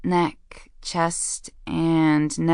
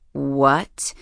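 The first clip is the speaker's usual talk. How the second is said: a short growled question; mildly growly, questioning; 3 semitones lower than usual. A narrator's reading. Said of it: "Again a growl".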